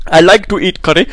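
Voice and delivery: mock Indian accent through giggles; joking Indian accent, barely holding back laughter. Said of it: "I can't get out of an Indian accent".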